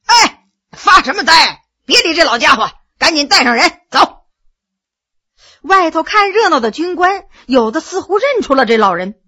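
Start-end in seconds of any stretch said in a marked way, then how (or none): 0.1-4.2 barked order, louder; loud shout. Acted. 罗二爷冲众人大声喝令. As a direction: hurry the men along with a shout. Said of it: "大声喝道".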